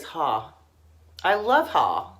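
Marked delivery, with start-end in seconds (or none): 0.0-0.5 New Jersey "ha" for her, pitched lower; New Jersey accent. Retold or imitated. Artist imitating her friend, New Jersey accent. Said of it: "she says "ha". 1.7-2.1 attempted New Jersey "ha", dropped low and loud; New Jersey accent. Fondly quoting her Jersey friend, New Jersey accent. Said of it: "I can't do a good accent".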